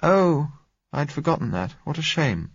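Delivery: high-pitched woman's voice, let down; disappointed exclamation. A narrator's reading. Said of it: "she exclaimed disappointedly".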